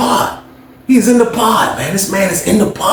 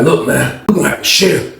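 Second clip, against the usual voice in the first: low tough voice; 4 semitones lower than usual. Retold or imitated. Cellmate warning the other man, low threatening voice. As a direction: drop low and lay down the law. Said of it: "He was like".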